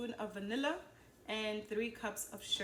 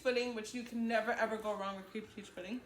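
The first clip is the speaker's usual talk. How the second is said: talking through a mouthful; words round a bite of cookie; mouth full. Real, not acted. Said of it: "I'm talking with my mouth full of food".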